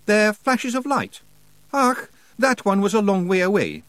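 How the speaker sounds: high, strong Scottish character voice; lively Scots warrior as guide; Rob Anybody, matter-of-fact Scots. Acted.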